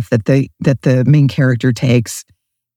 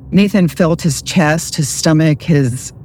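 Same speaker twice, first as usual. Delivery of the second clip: ordinary delivery, nothing marked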